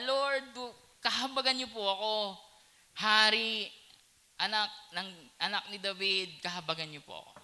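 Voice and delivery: pleading beggar. Acted.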